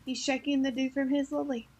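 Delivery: soft English-accented take. Shown as a demonstration. Co-host's last take of Stormy's sentence, English accent. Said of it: "one time in English".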